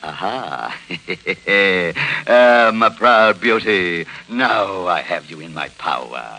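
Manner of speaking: mock villain. Mock villain seizing the deed.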